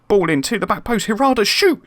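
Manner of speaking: high, loud urging yell; urging his striker to shoot, shouting excitedly. Real, not acted. Late chance in a tense match.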